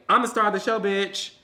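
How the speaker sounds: sassy mock diva boasting; diva attitude. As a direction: act out a woman who owns the show. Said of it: "women say".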